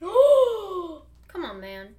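a hint of a fed-up Hercules, mock complaint; exasperated Hercules. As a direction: whine it like a fed-up hero. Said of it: "Hercules is like".

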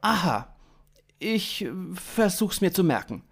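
ironic. A narrator's reading. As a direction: pretend to take it seriously. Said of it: "antwortete Sven ironisch".

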